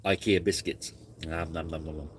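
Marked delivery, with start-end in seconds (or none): 1.3-2.1 nom nom. Real, not acted. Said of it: "I'm hungry".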